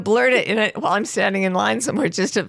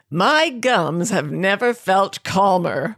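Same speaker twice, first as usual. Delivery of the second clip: ad voice; slower than usual. Retold or imitated. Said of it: "I loved this one".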